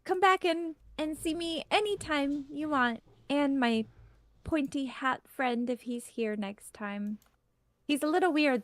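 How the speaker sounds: a hint of a tree character; talking tree. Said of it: "So the tree just says".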